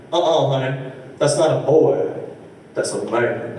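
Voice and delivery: sassy drag queen. Retold or imitated. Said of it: "was like".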